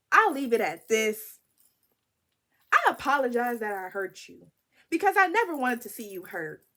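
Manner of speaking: lightly mock his earnest apologetic tone; imitating his voice. Reading his apology text in his voice, a light mock solemn tone. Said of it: "I'ma say it in his voice".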